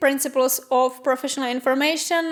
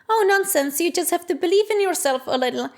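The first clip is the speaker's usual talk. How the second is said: higher, brisk dismissive teacher; imitating the teacher; 4 semitones higher than usual. Teacher dismissing the student's excuse, high and brisk. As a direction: wave it off like a pep talk, quickly.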